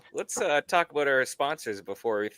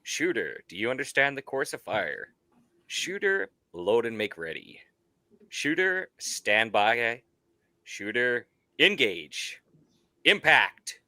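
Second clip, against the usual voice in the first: ring announcer. Acted. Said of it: "get you some ring announcer, uh, voice lessons".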